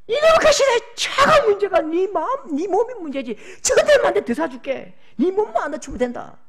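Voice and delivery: high, loud brushing-off of the car; loud fatherly scoff at the car; father telling his daughter only her body matters, loudly; emphatic father. Acted. Father dismisses the wrecked car.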